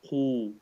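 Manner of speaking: Khu said heavy with a full mouth; round, full-mouthed Khu. Shown as a demonstration. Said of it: "full mouth".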